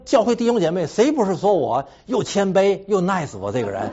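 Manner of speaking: self-satisfied boast. Retold or imitated. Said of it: "我说".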